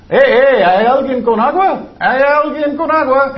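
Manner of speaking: loud, high, frantic call for water; hammed-up search for water, half laughing; mock frantic call. Christ mocked calling for water at the cross, loud and frantic.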